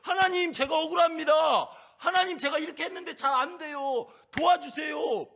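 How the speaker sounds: high, loud shouted plea, slowing at the end; a desperate cry to heaven, high and loud; crying out to God. Shown as a demonstration. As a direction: shout the prayer like a wronged widow. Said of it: "화나면 부르짖는 거예요".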